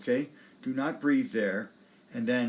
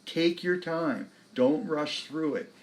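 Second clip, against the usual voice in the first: unhurried; 4 semitones higher, slower than usual. Real, not acted. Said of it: "coaching expressive playing".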